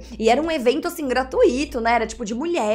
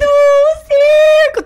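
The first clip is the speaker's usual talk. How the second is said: very high delighted squeal; mock excited squeal; 11 dB louder, much slower than usual. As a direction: gush like a thrilled kid.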